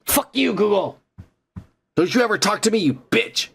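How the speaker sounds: shaking with anger. Real, not acted. Ranting at Google voice assistant.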